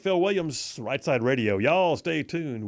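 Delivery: punchy radio host outro; radio sign-off. Acted. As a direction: sell the break to listeners.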